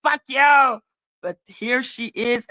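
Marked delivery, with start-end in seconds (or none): 0.0-0.8 mock shout of a brush-off; mock yell telling the crying dude off; dismissive retort. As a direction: bark it back dismissively. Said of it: "And she was like".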